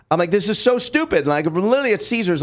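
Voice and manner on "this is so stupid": exasperated, higher-pitched protest; retold arguing. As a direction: act out arguing in disbelief, without shouting.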